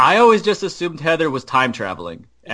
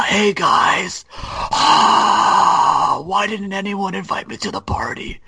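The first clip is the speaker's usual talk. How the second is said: bad Pete the Prius; 2 semitones higher, slower than usual. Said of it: "Pete the Prius".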